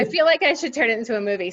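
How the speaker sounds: laughing through the words. Real, not acted. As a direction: giggle while you say it. Laughing while telling story.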